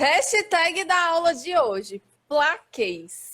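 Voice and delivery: drawn-out, high, loud announcement; announcing. Real, not acted. Host announces the lesson's hashtag to viewers, announcing loudly. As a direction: proclaim it slowly and loudly.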